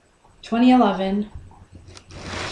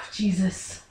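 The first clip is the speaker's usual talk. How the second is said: sighed, near-whispered oath; overwhelmed; 3 semitones lower, 9 dB quieter than usual. Acted. Son realises he nearly lost Dad, overwhelmed whisper. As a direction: let it out on a heavy breath.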